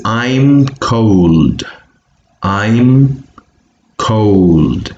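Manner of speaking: "I'm cold" read slowly, word by word; model reading. Shown as a demonstration. Teacher reading number one aloud for students, careful model reading. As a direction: draw out "I'm" and "cold" separately. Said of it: "reading it out loud".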